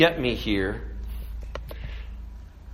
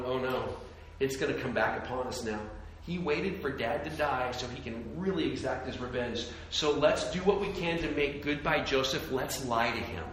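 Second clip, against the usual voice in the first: much softer mock-worried brothers; hushed fretting; 2 semitones lower, 11 dB quieter than usual. Brothers fear Joseph's revenge, hushed and worried. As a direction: fret in a hushed, conspiring tone. Brothers panic after Dad dies.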